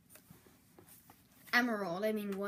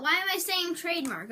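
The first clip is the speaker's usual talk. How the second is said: incredulous, higher and louder; puzzled at his own slip; why am I saying that; baffled; 6 semitones higher, 4 dB louder than usual. Real, not acted.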